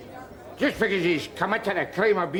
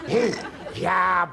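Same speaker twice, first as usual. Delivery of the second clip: angry shout. Acted. Drunk yelling at soldier.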